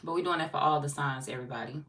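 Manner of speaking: words rounded by a lozenge; sucking a hard candy while talking; cough drop in mouth. Real, not acted. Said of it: "I got a cough drop in my mouth".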